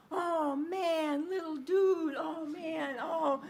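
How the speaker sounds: a big dad going oh man over his crying son; sympathetic dad. Retold or imitated. Dad reacting to crying baby.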